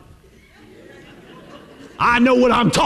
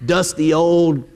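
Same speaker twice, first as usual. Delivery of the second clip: put-on young people sneering; 5 semitones lower, slower than usual. Preacher voicing youth scoffing at old people, in a low mock sneer. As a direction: scoff like a bored teenager. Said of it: "younger generation ... going".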